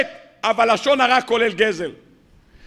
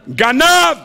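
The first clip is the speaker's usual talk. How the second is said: higher, accusing cry of "גנב"; trees crying thief; 4 semitones higher, 3 dB louder, much slower than usual. Retold or imitated. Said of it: "צעקו לו האילנות".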